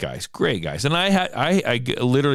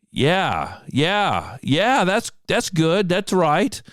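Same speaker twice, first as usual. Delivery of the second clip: mock eager agreement; 8 semitones higher, much slower than usual. Quoting official's eager agreement.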